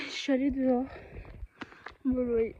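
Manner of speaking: talking through a bite; chewing while talking. Real, not acted. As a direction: mouth full. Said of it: "je suis en train de mâcher".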